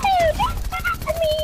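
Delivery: very high squeaky whine; squeaky cartoon voice. Repeats squeaky voice.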